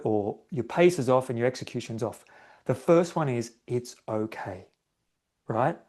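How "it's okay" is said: soft, slow, calming self-talk; soothing. Shown as a demonstration. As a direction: say it gently to calm yourself down. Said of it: "that's a soothing mechanism".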